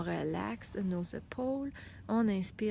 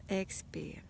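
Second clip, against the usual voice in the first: whispered breath cue; 3 semitones lower, 4 dB quieter than usual. Shown as a demonstration.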